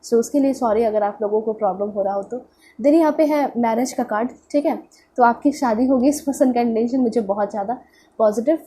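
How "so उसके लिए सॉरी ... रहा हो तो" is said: blocked nose. Real, not acted. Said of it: "सर्दी हो रखी है मुझे".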